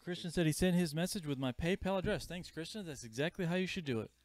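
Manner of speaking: talking around a cough drop; words round a lozenge; cough drop in mouth. Real, not acted. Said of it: "with my, a cough drop in my mouth".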